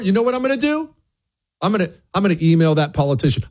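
high put-on voice, fast and plotting; mock scheming voice. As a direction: play the smug plotter, half-joking. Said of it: "maybe you're tempted to say".

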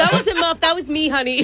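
mock confession. Acting out caller covering for dog.

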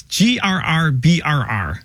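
spelling it out. Real, not acted. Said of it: "I'm trying to sound it out".

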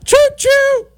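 high, loud choo-choo; gleeful train-whistle shout; mock train whistle. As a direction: toot like a toy train.

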